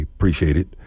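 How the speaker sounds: "Appreciate" starting straight on "preciate"; dropped a in appreciate. Shown as a demonstration. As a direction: drop the first a: "'preciate it". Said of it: "dispense with the A in appreciate".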